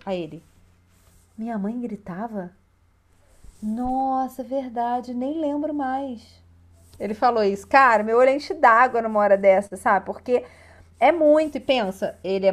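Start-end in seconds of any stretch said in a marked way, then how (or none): 1.4-6.4 put-on soft, slowing, wondering little boy; he can't even remember the shouting, let it trail off slowly; voiced surprised child. Boy tells the coach he forgot his mother's yelling, soft and slow.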